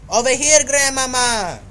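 loud high call over here. Real, not acted. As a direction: call her over across the village. Calling out to grandma in game.

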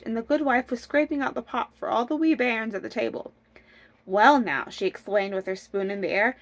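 lively, measured storybook narration; storytelling. A narrator's reading. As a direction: read the folk tale aloud with bounce. Reads a folk tale aloud.

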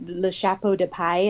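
self-conscious French accent on the title. Shown as a demonstration. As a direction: attempt the French accent, a bit unsure. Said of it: "my horrible French accent".

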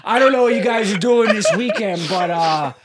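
imitating the stranger. Ghost hunter pitches herself to diners, mock imitation. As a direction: put on a stranger's self-introduction. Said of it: "She goes".

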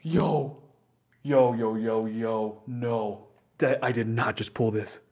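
very loud, drawn-out disbelief; stunned excited shout. Real, not acted. Streamer reacts to pulling a rare card, stunned shouting.

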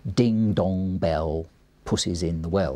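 slow, each beat hit hard; three beats a line. Shown as a demonstration. Teacher showing the beats of a nursery rhyme. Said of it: "three beats a line".

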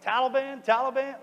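high, loud mock questioning; urgent retold question. Wounded soldier asking approaching villager who he is, high and urgent. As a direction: pitch it way up, as if checking urgently. Retelling his startled question to stranger.

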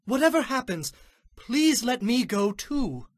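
high-voiced, earnest plea; eager messenger pleading. A narrator's reading. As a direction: beg the commander for permission. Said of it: "continued to plead".

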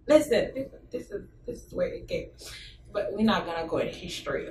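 drops to a whisper; hushed aside. Real, not acted. Holding back from a history rant, dropping to a whisper.

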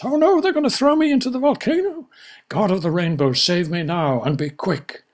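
high panicked pleading. Acted. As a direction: plead frantically to the god.

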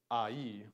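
AI split into two sounds, ah-ee; "ai" said as ah-ee, not as a diphthong; two separate vowels. Shown as a demonstration. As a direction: give each vowel in "ai" its own sound. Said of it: "this is making its own sound".

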